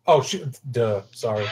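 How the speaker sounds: sudden embarrassed realization; caught out. Real, not acted. Player realizes he mixed up the names, a sudden embarrassed outburst. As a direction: blurt it as you catch your mistake.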